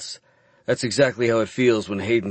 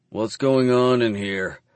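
growl; slower than usual. Acted. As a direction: growl it slowly. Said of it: "Clive growls".

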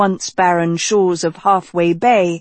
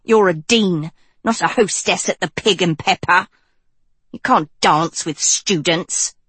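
apoplectic. A narrator's reading.

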